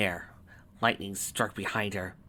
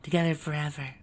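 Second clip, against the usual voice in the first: high, airy whisper in the ear; soft angelic coaxing; sweet whisper; 6 semitones higher, 4 dB quieter than usual. A narrator's reading. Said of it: "she whispered in her ear".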